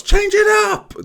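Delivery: high yelled coach command; shouting coach. Retold or imitated. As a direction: bellow it like a coach. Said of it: "Mister McKay shouts".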